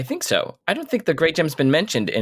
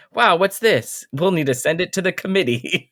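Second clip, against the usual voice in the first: mock gnome, high and eager; wide-eyed gnome grabbing the hoopak; excited gnome; 6 semitones higher than usual. Gnome marvels at Taz's hoopak, high and eager.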